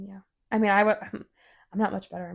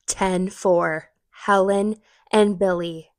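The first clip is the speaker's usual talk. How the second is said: police radio voice; 5 dB louder, slower than usual. Pretend. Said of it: "only appropriate to say because we discuss law enforcement".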